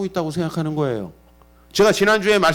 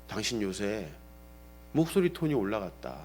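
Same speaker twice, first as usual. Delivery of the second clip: low, soft husbandly reproach; serious complaint; 6 semitones lower, 8 dB quieter than usual. Retold or imitated. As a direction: retell a earnest grievance to a wife. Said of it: "한번 진지하게 몇 년 전에 얘기한 적이".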